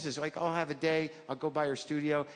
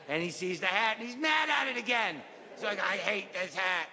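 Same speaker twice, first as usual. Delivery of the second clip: lightly voiced kid narrator, subdued; child telling a sad story. Kid telling of the sad store, mildly mournful childlike storytelling. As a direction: recount it simply, like a child saddened by the story.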